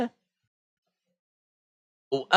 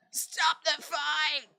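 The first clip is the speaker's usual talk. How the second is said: high, slow shout to stop the fight; yelling at the screen; 13 semitones higher, 7 dB quieter, much slower than usual. Real, not acted. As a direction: bellow it at the referee.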